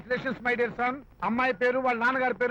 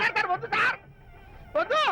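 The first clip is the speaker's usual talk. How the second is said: pleading; 8 semitones higher than usual. Acted. Servant begs not to stop wedding.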